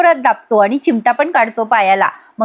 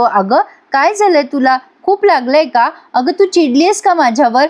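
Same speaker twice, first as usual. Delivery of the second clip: mock concern; 4 semitones higher than usual. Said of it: "हा मुद्दाम त्रास देतोय".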